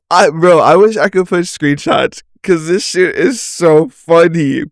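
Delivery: giggly disbelief at how funny it is; cracking up. Real, not acted. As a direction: talk through real amusement, pitch lifted. Laughs at the chat she reads.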